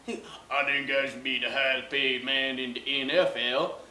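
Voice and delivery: slow, whiny mock of Eli. Mocking Eli's salary demand, slow whiny voice. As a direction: drag it out like a sulky kid.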